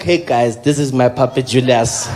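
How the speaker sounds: low, loud impression of a president; Jacob Zuma. President presenting his little puppy, low put-on voice. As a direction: introduce the pet in a deep put-on voice. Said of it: "It was almost like Jacob Zuma".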